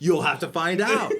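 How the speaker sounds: giggling, slow playful withholding; laughing tease. Real, not acted. Teasing spoiler, laughing.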